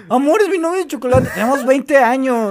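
mock lovestruck kid. Mocking a kid's puppy love.

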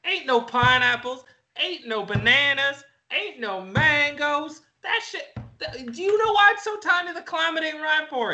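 high-pitched, heated rant; worked-up rant. Acted. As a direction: rail against the wacky fruit, pitch way up. Ranting about fruit in Canada.

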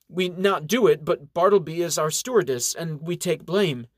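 lightly voiced young elf in broken English, serious; Zena, serious elf girl. Zena tells the reverend of the stolen alchemy, serious.

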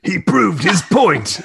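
slow, laughing character voice. Acted. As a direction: put on the old hunter's voice. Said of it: "if you don't do the voice".

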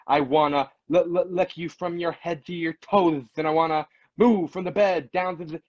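exaggerated lisp; lispy voice. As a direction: rap it with a heavy lisp. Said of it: "I get, like, super lispy".

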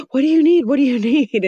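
gasp, then high-pitched frantic fussing; mock fussing. Everyone rushing to a whining child, in mock panic. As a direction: overdo the anxious rush to help.

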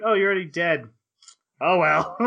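quoting Shinobu. Retold or imitated. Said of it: "turns around and is like".

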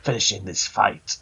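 slow, deliberate heroic line; measured and weighty, every word drawn out; Master Chief. Acted. Chief answering over the radio as the game ends, slow and deliberate. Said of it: "And then Chief identifies himself".

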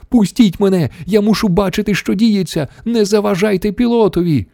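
high-pitched frantic plea; wailing protest. A narrator's reading. Wonka struggling to get free, high wailing protest. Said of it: "заволав містер Вонка".

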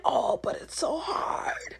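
soft slow whining; hammed-up complaint; mock whine. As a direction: whine like a quitter. Mock whiny excuse.

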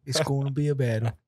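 a lightly hammed-up fight-night promo; promo announcer voice. Podcast co-host hyping the London game, mock promo announcer. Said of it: "that should be the promo".

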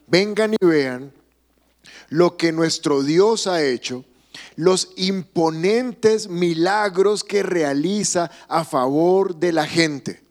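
slow, measured scripture read; slow psalm reading. Acted. Pastor reading the psalm to the congregation, slow and measured. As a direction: draw the verse out slowly.

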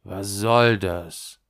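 slow, weighted question leaning on SOLL. A narrator's reading. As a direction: demand it slowly and firmly, stressing SOLL. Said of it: "diesmal entschlossener". (entschlossen, langsam, mit Nachdruck auf SOLL)

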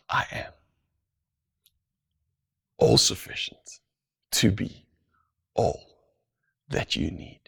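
hushed whisper. Acted. Repeated line, hushed.

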